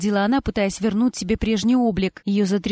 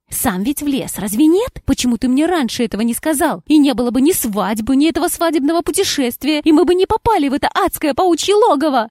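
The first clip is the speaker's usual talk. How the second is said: loud, high furious reproach; 5 semitones higher, 5 dB louder than usual. Acted. Wife blaming her husband for the spider lair, furious reproach. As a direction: hurl the blame at him.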